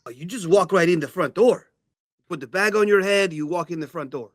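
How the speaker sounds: lightly voiced owl, matter-of-fact; breezy owl. Owl Jorge telling visitors how to get in, breezy character voice. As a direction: make it sound simple, as the owl.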